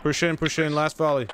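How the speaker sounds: urgent rallying shout. Real, not acted. Urging squad forward in battle.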